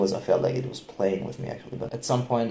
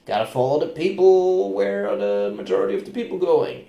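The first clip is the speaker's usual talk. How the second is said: anxious; 8 semitones higher, 5 dB louder than usual. Retold or imitated. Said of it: "it was like".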